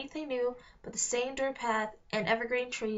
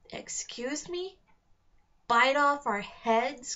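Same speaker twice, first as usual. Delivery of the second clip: indignant; 3 semitones higher, slower than usual. Acted. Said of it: "Steam was practically coming out".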